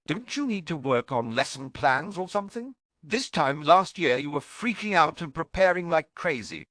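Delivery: a hint of a sparky young witch teasing; Tonks voice. A narrator's reading. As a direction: play the cheeky Auror, needling her friend.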